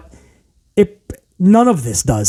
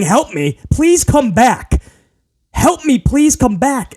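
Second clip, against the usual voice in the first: mock yelling; 5 semitones higher than usual. Wrestler begging partner to return, mild mock yell. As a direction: mimic a desperate call for help. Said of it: "She's literally yelling".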